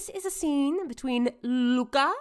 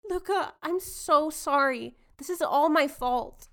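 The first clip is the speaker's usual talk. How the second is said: London voice; 3 semitones higher than usual. Acted. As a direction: play the shocked heiress. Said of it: "You will be London".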